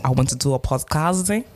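hammed-up Polish accent, badly faked. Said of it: "Is that Polish?".

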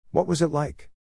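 high, eager questioning voice; lightly voiced curious man. Harry questions old Mary.

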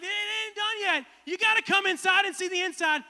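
Ty Pennington impression. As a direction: tease the reveal like a showman. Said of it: "Ty's like".

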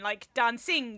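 mock Italian with a sounded G on "dancing"; mock Italian accent. Teasing the actor about the casting, mock Italian accent. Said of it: "you were gonna say you sounded Italian".

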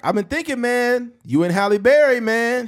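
mock Chad pitch; imitating Chad. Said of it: "Chad was like".

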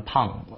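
胖 said like Chinese pang; wrong pun. Retold or imitated. Teacher showing pun must not sound like 胖. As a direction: warn with pun said as 胖. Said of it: "你不能读成胖".

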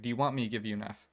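fast, flat-toned threat from a teacher; deadpan sternness, rattled off quickly; imitating a stern teacher's monotone. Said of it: "exact same monotone, just sternness".

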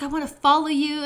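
imitating a creepy stranger; creepy guy. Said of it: "he was like".

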